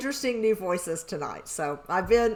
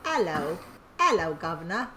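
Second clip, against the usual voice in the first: put-on clumsy British accent; 4 semitones lower, 4 dB quieter than usual. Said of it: "you try to do that ... to be the accent".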